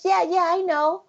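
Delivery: put-on high, offhand child's voice; breezy kid brushing it off, pitched high; voicing her son. Son answering his mother, high casual child's voice. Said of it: "And he says".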